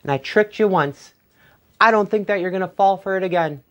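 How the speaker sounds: lightly voiced wily Jack; sly Jack. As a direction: coax him like a cunning rogue. Jack bargains with the stranger.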